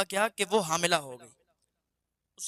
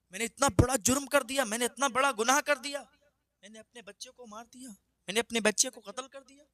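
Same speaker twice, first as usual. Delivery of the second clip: higher, despairing cry of guilt; mother lamenting her son's murder, weeping; 5 semitones higher than usual. Acted. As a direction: wail over what she has done. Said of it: "روتی ہوئی گھر چلی آئی".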